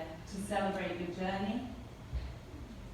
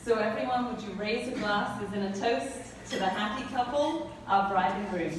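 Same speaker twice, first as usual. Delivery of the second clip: wedding toast speech. Acted. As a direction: raise a glass to the couple. Raising glasses toast.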